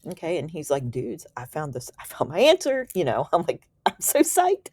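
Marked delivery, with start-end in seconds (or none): 0.9-2.9 playful imitation of a thrilled discovery; excited announcement. 3.9-4.7 high, excited mock squeal; playful imitation of being thrilled; psyched squeal. Speaker imagines her own thrill.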